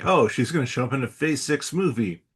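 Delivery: lightly acted take on a hot rumour; mock news reaction. Host mimics reaction to a Phase Six rumour, lightly acted. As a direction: play someone reacting to the rumour.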